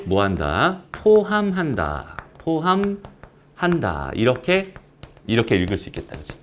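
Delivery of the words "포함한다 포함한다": drawn-out, spaced-out syllables; slow, deliberate. Shown as a demonstration. Maths teacher modelling how to read the symbol, slow and deliberate. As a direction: spell it out slowly for learners.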